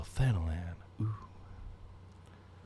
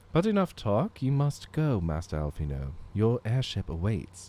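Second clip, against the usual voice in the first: solemn commander voice; 3 semitones higher, 4 dB louder than usual. Acted. Voicing marshal lines.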